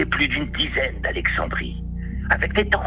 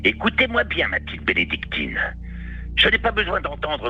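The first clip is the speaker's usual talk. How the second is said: commanding; 3 semitones higher than usual. Acted. Boss commanding attention.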